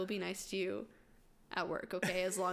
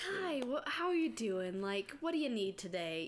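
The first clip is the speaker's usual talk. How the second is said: lightly raised, friendly clerk greeting; a hint of a calm cashier; mildly imitated shop greeting; customer service voice; 3 semitones higher than usual. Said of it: "so calm".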